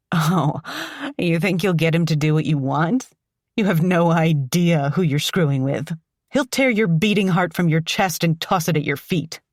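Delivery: defiant taunt. Acted. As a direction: throw it in his face, laughing mad. Defiant captive taunting kidnapper.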